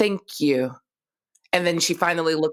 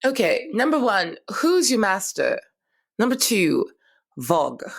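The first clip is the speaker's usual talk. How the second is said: higher, sharp demanding questions; irritated questioning; 3 semitones higher than usual. Acted. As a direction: snap the questions at him. Irritated doctor questions intruder.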